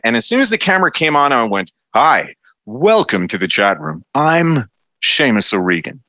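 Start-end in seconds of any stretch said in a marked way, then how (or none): 1.9-6.0 slow, lightly hammed-up TV host greeting; a hint of a cheesy sitcom announcer, slow; Troy McClure voice. Host introduces himself on camera, slow mock Troy McClure voice. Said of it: "I sounded like Troy McClure in The Simpsons".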